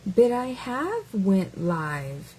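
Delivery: slow, word-by-word read; reading it as written. Shown as a demonstration. Reading the comment slowly as written, mocking. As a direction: spell out every word of the comment. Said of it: "I'm just gonna read it the way you wrote it".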